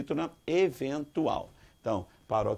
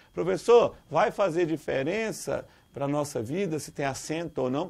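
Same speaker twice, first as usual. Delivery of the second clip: mock student challenge; 3 semitones higher than usual. Student asking teacher whether the accent matters in life, mock challenge. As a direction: lightly play a student questioning the point.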